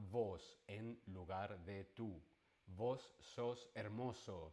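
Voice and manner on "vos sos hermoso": Argentine voseo. Shown as a demonstration. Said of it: "se diría en Argentina".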